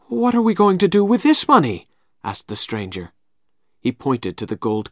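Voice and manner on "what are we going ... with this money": higher questioning voice; puzzled, pitch up; stranger's voice. Acted. Stranger asks.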